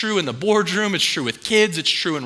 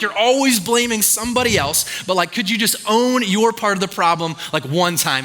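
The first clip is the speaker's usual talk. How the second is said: exasperated complaint; 4 semitones higher than usual. Retold or imitated. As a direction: vent at the coworker who never apologizes. Annoyed at a coworker.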